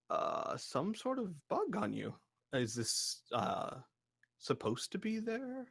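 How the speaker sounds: lightly voiced giant, hesitant and puzzled; tentative, curious gentle giant; courteous giant. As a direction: point it out politely, haltingly, as a giant. Giant puzzles over the small visitor.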